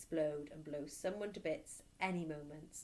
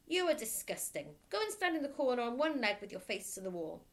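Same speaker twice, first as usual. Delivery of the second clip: louder, booming scold; stern headmistress; 4 semitones higher, 4 dB louder than usual. Acted. Headmistress scolding a small boy, booming and stern. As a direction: bark it down at the child.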